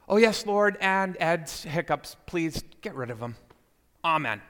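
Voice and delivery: retold prayer winding down to amen; prayer afterthought. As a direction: tack on an obliging plea to the Lord. Brother hastily resumes prayer when prompted.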